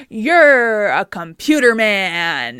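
put-on slow, drawn-out childish jeer; mock taunt. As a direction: drag out the insult slowly. Kirk taunting Spock.

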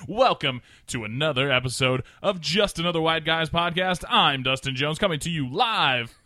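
lightly hammed radio host intro; radio guy voice. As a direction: sell the show like a drunk DJ. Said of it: "slip into radio guy".

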